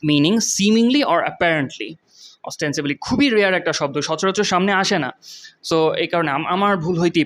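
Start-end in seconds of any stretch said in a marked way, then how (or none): 0.1-1.9 very slow definition. Shown as a demonstration. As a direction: draw out meaning in spite of. Reads definition slowly.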